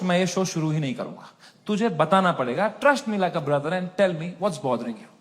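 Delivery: low, soft, earnest big-brother coaxing; mock caring host. To the crying guest, a soft mock-earnest plea. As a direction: coax her gently like a brother. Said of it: "मैं कहा".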